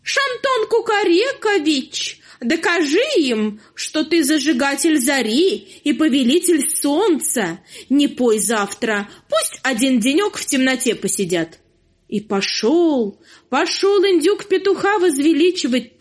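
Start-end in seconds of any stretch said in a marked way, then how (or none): 0.0-11.6 sly flattering turkey. Acted. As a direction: egg him on slyly. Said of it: "подзадорил петуха".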